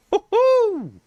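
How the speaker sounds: high, stretched whoop; a real thrilled cheer, high and drawn out; excited woo-hoo. Real, not acted. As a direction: let out a slow delighted whoop.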